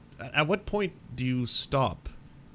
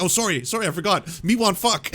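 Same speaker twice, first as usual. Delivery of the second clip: higher, louder, mock apology sliding into caveman line; mock sheepish creep; 9 semitones higher, 7 dB louder than usual. A creep who insulted first, mock caveman come-on. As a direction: play the forgetful creep, laughing it off.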